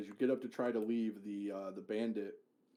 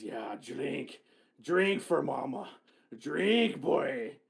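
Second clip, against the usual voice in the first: giant orc woman voice, pushy and coaxing, high and slow; 5 semitones higher, 7 dB louder than usual. Forcing whiskey down a commoner's throat, as a giant orc lady voice. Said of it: "And a commoner sort of looks terrified up to a giant orc lady who doesn't grab mead like you guys, / And a commoner sort of looks terrified up to a giant orc lady who doesn't grab mead like you guys".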